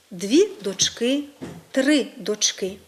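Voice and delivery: slowly, дочки with the beat on КИ; stress on second syllable. Shown as a demonstration. Teacher showing forms with numerals, stress on дочКИ. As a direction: push дочки to the end: дочКИ. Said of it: "Зберігається наголос на другому складі".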